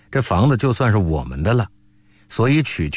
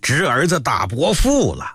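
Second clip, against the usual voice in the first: put-on drunken ranting. A narrator's reading. Fallen uncle accusing his nephew, ranting drunkenly. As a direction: bawl it out like a sprawling drunk. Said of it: "躺在地下乱嚷起来".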